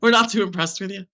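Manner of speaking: light mocking Irish lilt, teasing a show-off; a hint of an Irish relative cutting her down; Irish accent. Relative telling her to get the mop, light teasing Irish accent. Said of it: "I like to put an Irish accent on the story".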